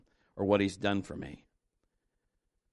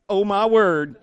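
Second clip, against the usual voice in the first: sassy, louder "Oh, my word"; with attitude; 9 semitones higher, 10 dB louder, slower than usual. Shown as a demonstration. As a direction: toss it off with attitude. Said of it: "You can even say it with attitude".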